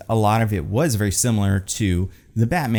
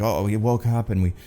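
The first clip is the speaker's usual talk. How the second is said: bad Irish accent. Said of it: "I can do a bad Irish accent".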